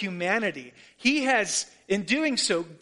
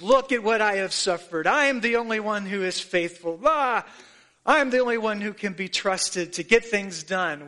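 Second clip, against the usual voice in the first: self-pitying martyr tone, a bit louder; martyr's voice; 3 dB louder than usual. Retold or imitated. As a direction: sigh it out like a martyr. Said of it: "in a martyr's voice".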